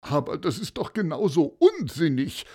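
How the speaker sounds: a mild exasperated groan on unsinnig; groaning complaint. Acted. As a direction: Paulus sighing that it is all nonsense, mildly. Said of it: "stöhnte Paulus".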